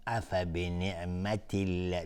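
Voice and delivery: slow recitation with light l in الله; thin Allah. Shown as a demonstration. Teacher showing the correct quality, thin الله.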